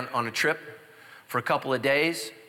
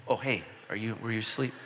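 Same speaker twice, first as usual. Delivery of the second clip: much softer, feigned casual check; fake-innocent whisper-soft; 4 semitones lower, 6 dB quieter than usual. Husband nudging sleeping wife, softly fake-innocent. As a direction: softly pretend you didn't mean to wake her. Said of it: "you just, like, bump her".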